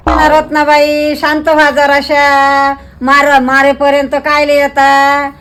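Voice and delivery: slow, soothing pacifying voice; calming. Acted. Neighbour calming two quarrelling friends, slow soothing plea. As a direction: ease them down slowly.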